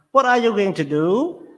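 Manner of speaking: "do" hit at the end of "what are you going to do"; stress on do. Shown as a demonstration. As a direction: land on the word "do". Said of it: "stress is with do".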